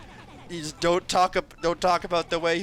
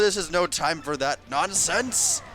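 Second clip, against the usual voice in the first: put-on indignant Texan accent, louder and higher; Texan Bowser; 7 semitones higher, 4 dB louder than usual. Bowser scolding about a picnic in a Texan accent. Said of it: "Texan accent is just great".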